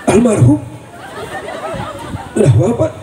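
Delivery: lightly voiced kiai at a funeral; hint of a solemn cleric addressing mourners; mock funeral kiai. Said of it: "Jadi kiai ngomong begini".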